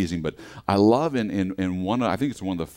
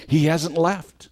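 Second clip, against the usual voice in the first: slow, each word landed firmly; slow and emphatic, he hasn't left; 6 semitones higher, 3 dB louder, slower than usual. Real, not acted. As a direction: press the reassurance home. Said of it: "But you know what?".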